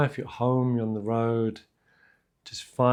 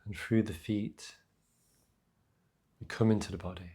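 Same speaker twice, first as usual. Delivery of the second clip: unhurried meditation voice with long pauses; guided meditation; 4 dB quieter than usual. Real, not acted. Teacher grounding listeners in breath and feet, guided meditation. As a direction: gently guide them into the breath.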